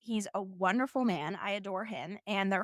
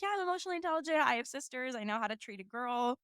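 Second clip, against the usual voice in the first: mocking a smug guy; 3 semitones higher, 4 dB quieter, faster than usual. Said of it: "a guy who's like".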